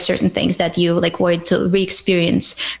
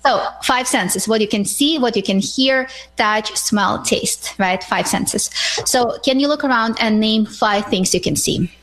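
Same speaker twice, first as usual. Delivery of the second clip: guided grounding; 2 semitones higher than usual. Shown as a demonstration. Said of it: "we can do it right now here with you".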